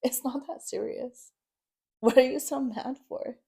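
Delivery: high-pitched mock of a laughing ex; dismissive mimicry. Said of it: "He's laughing about it".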